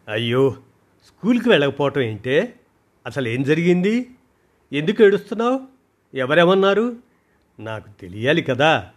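urgent alarmed questions; mother pressing her crying daughter, alarmed; worried. Acted.

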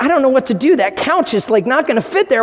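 a hint of a flustered wife; mock fretting wife. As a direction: fret over the couch in a gently teasing wife voice. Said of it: "My wife's like".

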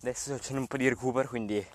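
out of breath mid-run; while running. Real, not acted. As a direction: talk while jogging, breathless. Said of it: "non parlerò molto in sto podcast perché sto correndo".

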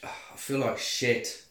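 rough, hungover and unvoiced; hungover croak. Real, not acted. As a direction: drag it out like a bad hangover. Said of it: "I'm so hungover".

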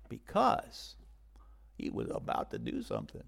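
low suspenseful whisper; breathless, unvoiced anticipation; hushed whisper. A narrator's reading. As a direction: lean in, hold the secret.

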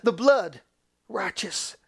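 forceful first word dropping to hush; emphatic pulpit declaration; crying out. Acted. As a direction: proclaim it, then soften the last word. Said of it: "God cries out".

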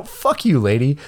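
high pitched imitated snap at the agent; mock angry outburst. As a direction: fling it at her in mock anger. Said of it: "That's what I wanted to say".

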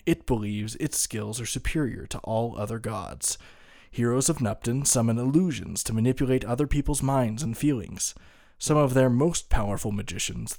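lightly dramatic lore reading; cool storyteller voice. Shown as a demonstration. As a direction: read it like a fantasy storyteller. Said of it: "I'll do my best to read this in a, a cool storyteller voice".

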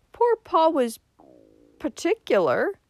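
high, halting tearful admission. A narrator's reading. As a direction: admit it reluctantly, near tears. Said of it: "admitted Missus Frederick tearfully".

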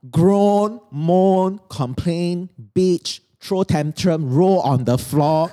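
high, slow, hammed-up whine of a complaining client; dramatic whining client. Coach mocking a client's complaints with a high dramatic whine. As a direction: ham up a tantrum, dragging the words. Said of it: "I kind of got very dramatic there".

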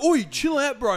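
high, loud mock protest. Guy being screamed at for asking, loud mock protest. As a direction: imitate a startled guy protesting.

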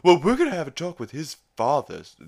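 high, loud, quick scolding impression; Stewie. Stewie scolding Chris on the way home, high fast voice. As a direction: rap it out fast in a high put-on voice. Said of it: "Stewie's like".

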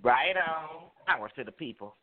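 low, loose tipsy talk. Real, not acted. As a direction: sound like you've had a few. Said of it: "I'm a lot tipsy".

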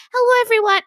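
high-pitched, hit-or-miss Yorkshire greeting; attempted Yorkshire accent. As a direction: have a rough go at a Yorkshire accent. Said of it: "Yorkshire accent".

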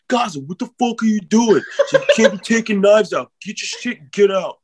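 high-pitched yell across the bar, half laughing; imitated high-pitched outburst through laughter; not saying it quietly. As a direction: holler it across the whole bar. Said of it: "like, say it quietly".

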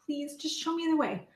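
hushed, half-whispered pleading to God; retold whispered prayer. Sobbing in her car, a whispered prayer to God. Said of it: "and I'm sobbing".

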